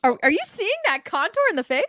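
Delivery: words through hollowed cheeks; sucked in cheeks. Pretend. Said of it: "you gotta suck in your cheeks".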